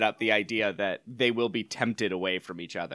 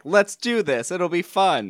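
higher-pitched playful urging; lighthearted; 5 semitones higher than usual. Retold or imitated. Husband cheerfully proposing the bet to his wife, lighthearted. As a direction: pitch it up, breezy and game. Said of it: "being lighthearted about it".

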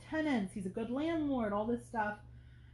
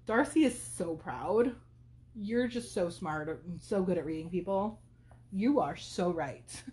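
flattering; slower than usual. Retold or imitated. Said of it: "complimenting her intelligence".

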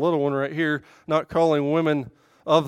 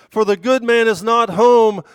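higher, louder persuasive temptress; enticing woman; 6 semitones higher, 9 dB louder than usual. Acted. Temptress assures him her husband is away, lightly persuasive. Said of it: "you gotta hear her".

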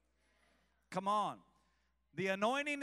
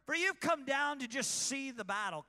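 raised, intense scripture reading; loud dramatic reading; 6 semitones higher, 7 dB louder than usual. Acted. Preacher reading Eliab's angry rebuke aloud. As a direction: read it like the scene is live.

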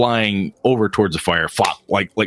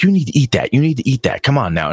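mildly insistent nagging; lightly voiced fed-up mom; scolding mother; 3 semitones higher, faster than usual. Mom nagging her girl to eat, mildly scolding.

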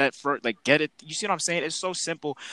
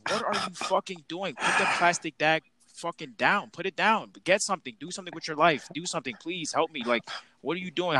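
higher, half-shouted mock rant; high-pitched exasperated scolding; exasperated yelling at coworkers; 5 semitones higher than usual. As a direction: blow up at lazy coworkers. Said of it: "I'm like".

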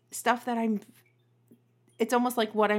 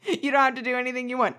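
swallowed voice; 4 semitones higher, faster than usual. Pretend. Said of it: "If you wanna talk like this".

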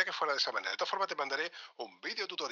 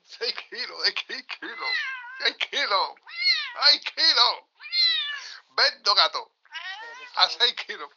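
excited straining; 8 dB louder, slower than usual. Real, not acted. Showing off heavy cat, straining.

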